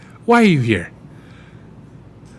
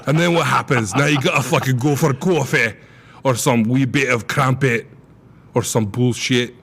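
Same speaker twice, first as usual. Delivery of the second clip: mock Scottish accent. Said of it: "you kinda slipped into a weird accent there".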